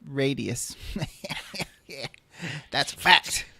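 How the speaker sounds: a hint of George W drawl; slow, folksy presidential impression. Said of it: "why did you start going George W".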